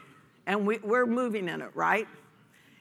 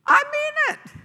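emphatic; 9 dB louder than usual. Real, not acted. Emphatic exhortation.

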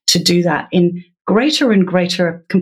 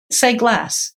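teacher prompt; 5 semitones higher than usual. Shown as a demonstration. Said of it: "it was something like".

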